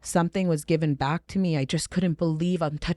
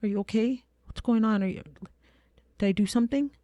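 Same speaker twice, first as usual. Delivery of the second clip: put-on high, anxious little-girl voice; imitating an uneasy nine-year-old with rising questions; scared child; 6 semitones higher, faster than usual. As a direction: ask timidly, like a worried daughter. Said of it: "she looks scared".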